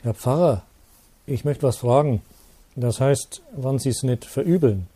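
lightly voiced old village postman, hesitant; a hint of a timid old man asking a favour. Old postman timidly approaching the priest, lightly voiced.

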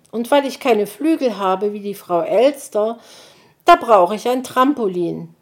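hohe Kinderstimme, eifrig; kleiner Igeljunge. Acted. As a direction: ein aufgeregter kleiner Junge entschuldigt sich. Borstel erklärt begeistert. (Borstel entschuldigt sich eifrig bei Mutti)

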